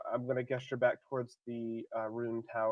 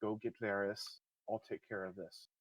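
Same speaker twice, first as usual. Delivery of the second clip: soft, low urgent mutter; muttered aside; 3 semitones lower, 8 dB quieter than usual. Acted. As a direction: mutter it behind you without the crowd hearing. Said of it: "mutter behind me".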